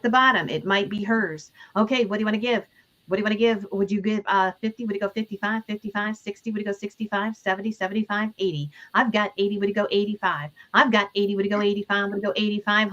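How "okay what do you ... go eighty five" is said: lightly chanted bid calling; auctioneer. Acted. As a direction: call out bids like an auctioneer.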